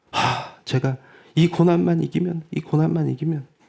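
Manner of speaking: tearful speech broken by sobs. Imitating a churchgoer who prays while crying: imitating someone praying while crying. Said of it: "막 울면서 기도해요".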